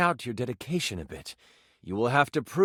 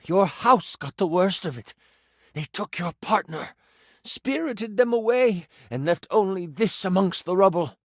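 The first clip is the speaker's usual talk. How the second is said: voiced priest; 4 semitones higher than usual. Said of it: "I do love the voices".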